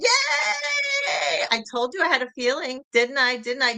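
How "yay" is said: high, bright squeal of joy; excited cheer. Real, not acted. Cheering DeAudrey on her new job, a high squealed yay. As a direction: cheer her friend on at full pitch.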